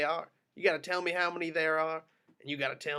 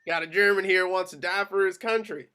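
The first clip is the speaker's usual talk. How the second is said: loud order; 5 semitones higher, 9 dB louder than usual. Acted. Officer orders the execution.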